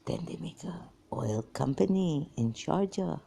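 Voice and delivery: drops to a whisper for the juicy part; hushed gossip. Real, not acted. Whispering family gossip to the viewer, hushed. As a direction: let it slip out like a family secret.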